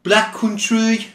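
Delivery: slow, high mock Black Country accent. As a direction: drawl the words out in a put-on Black Country accent. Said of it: "with my, uh, accent there".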